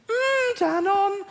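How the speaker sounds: high, slow, loud jingle-like moan; mock climax. Mate joking in bed as he came, high drawn-out mock moan. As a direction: draw it out in comic ecstasy. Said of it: "as he came, he went".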